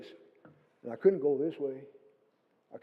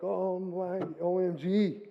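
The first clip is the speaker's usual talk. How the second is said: a raised, startled oh my gosh; retold shock; 4 semitones higher, much slower than usual. Seeing Hunter take the hill, startled. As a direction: gasp at the runaway sheep. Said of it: "and I'm like".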